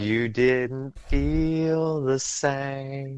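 very slow, drawn-out robotic line; Jetsons impression. Friend does a Jetsons voice for the group, slow and drawn out. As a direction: stretch each word like a cartoon robot. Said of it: "Here's my Jets impersonation".

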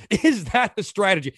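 laughing through the repeated question; a short incredulous laugh as he asks it; disbelieving laugh. Real, not acted. Host laughing in disbelief at the coach's strategy, laughing.

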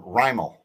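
Raimel said as RYE-mul; emphasis on first syllable. Retold or imitated. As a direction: stress RYE, swallow the end of Raimel. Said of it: "an emphasis thing".

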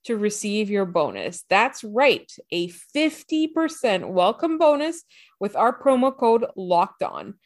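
upbeat sponsor read with a salesy push. Acted. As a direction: sell the promo code like a radio spot. Host reads sponsor ad.

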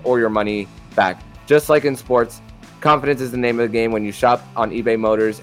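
upbeat scripted sponsor read; rolling, punchy host ad read; podcast ad read. Real, not acted. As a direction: sell it like a sports podcast sponsor spot.

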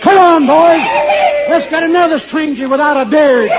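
high, loud rallying holler; calling out. Acted. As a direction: holler to round up the gang. Rallies the gang in the street.

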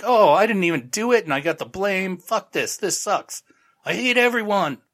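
mock petulant rant. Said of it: "and he's like".

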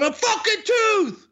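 a retold swear at a lost tooth; retold outburst. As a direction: blurt it out in disbelief. Retelling outburst in meeting.

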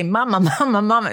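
laughing through a mock toddler "mama, mama"; mimicking a child gobbling mama like a turkey; turkey-like toddler call. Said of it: "like she was a turkey".

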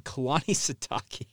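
real laugh breaking through the name; can't hold the laughter in. Real, not acted. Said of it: "I can't do it without laughing".

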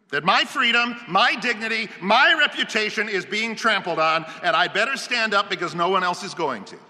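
high, loud, rising to own defense; indignant self-defense. Acted. Aggrieved person standing up for trampled rights, indignant. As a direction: punch each "my" with indignation.

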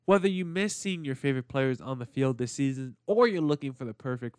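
upbeat sponsor read voice. Acted. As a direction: sell it like a podcast ad.

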